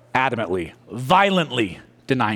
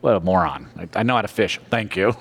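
scoffing fishermen; 5 semitones lower than usual. Retold or imitated. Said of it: "professional fishermen are going".

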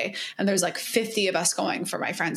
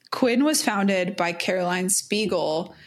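leaning into the mic; slower than usual. Real, not acted. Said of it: "you lean into the mic for your, for your N P R level".

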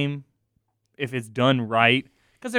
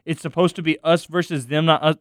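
slow, exaggerated recital of corny lines; mocking read; 2 semitones higher, 5 dB louder, slower than usual. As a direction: drag out each line to show how clunky it is. Mocks the corny script lines.

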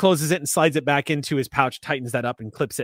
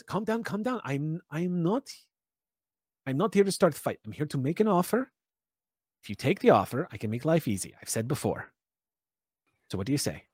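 placating; 6 dB quieter than usual. Acted. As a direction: settle her down gently. Stranger placating angry Tara.

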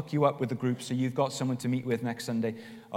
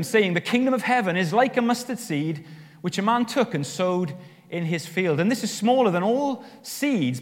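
emphatic, raised-pitch public Bible reading; scripture reading; 3 semitones higher than usual. Acted. Preacher reads Matthew's parable to the congregation, emphatic scripture reading. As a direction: read it out to the congregation with deliberate emphasis.

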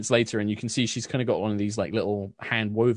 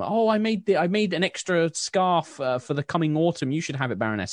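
eager villager; 8 semitones higher than usual. Acted. Villager offering a scarf.

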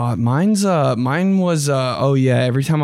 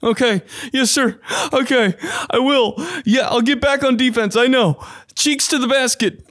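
much higher, eager yes-sir voice; meek player; 10 semitones higher than usual. Retold or imitated. Player answering his yelling coach, high meek voice. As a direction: nod along to the coach while plotting.

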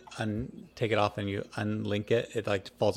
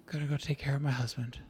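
exhausted jeweler; 5 semitones higher, faster than usual. Acted. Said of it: "she also looks a little exhausted".

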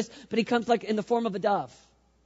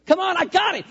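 cocky challenge; 7 semitones higher, 4 dB louder than usual. Retold or imitated. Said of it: "and be like".

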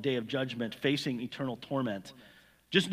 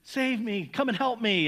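earnest plea; 4 semitones higher than usual. Retold or imitated. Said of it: "cry out all the more earnestly".

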